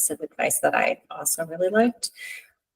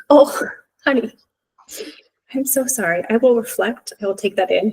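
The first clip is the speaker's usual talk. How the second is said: higher, gentle mock-tender mom reply; tender apology; 4 semitones higher than usual. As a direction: soothe a hurt child with a lightly voiced apology. Mom voices reply to hurt daughter.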